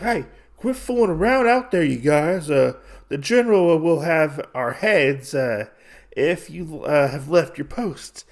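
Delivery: a high call into the dark, then settling. Retold or imitated. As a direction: shout a warning to the guys out there. Guard calls to unseen men.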